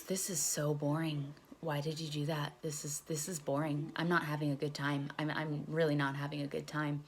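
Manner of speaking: subdued, retold boredom; bored self-reproach. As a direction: talk to yourself, unimpressed. Telling herself it is boring.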